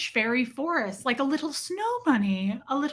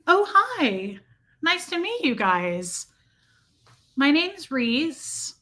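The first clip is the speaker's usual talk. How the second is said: pretend stranger; 3 semitones higher, much slower than usual. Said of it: "Act like you don't know me".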